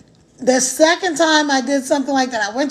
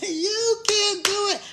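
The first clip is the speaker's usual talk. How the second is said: softer, slow, earnest; soft encouragement; 6 semitones higher, 6 dB quieter, slower than usual. Real, not acted. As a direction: say it gently and sincerely.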